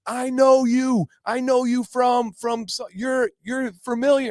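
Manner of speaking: high, slow imitation of someone placing a face; put-on high voice, groping for the memory; puzzled stranger. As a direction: mimic a fan hesitantly recognizing someone, drawn out and high. Acts out strangers trying to place him.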